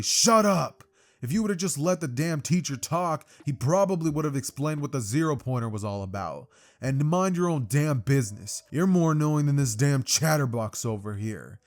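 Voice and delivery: shouted opening, then loud irritated rant; mock-furious outburst, easing to a scold; angry telling-off. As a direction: snap back loudly at a know-it-all. Bakugo yelling at Ida, acted.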